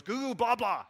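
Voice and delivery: put-on high, loud baby babble; babbling one-year-old. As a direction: squeal it like a happy toddler. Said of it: "he's like a year old".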